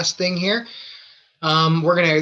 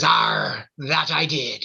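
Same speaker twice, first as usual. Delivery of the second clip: low growly "Arr" pirate; lightly voiced old pirate; 3 semitones lower, much slower than usual.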